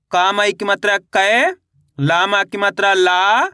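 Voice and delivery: slow chant, last syllable stretched and rising; drawn-out, lilting matra drill; spelling drill recitation. Shown as a demonstration. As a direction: spell it out for pupils to repeat.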